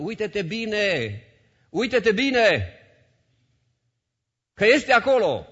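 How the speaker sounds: drawn out, very slow pleading; slow insistence. Real, not acted. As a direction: stretch every word to make them look. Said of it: "repeated slow emphasis". (rar și apăsat, rugător)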